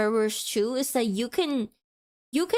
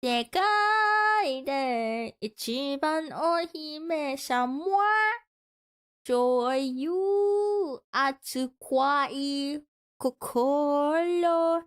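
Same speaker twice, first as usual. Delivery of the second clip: cartoon princess; 3 semitones higher, much slower than usual. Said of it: "Because I am a princess".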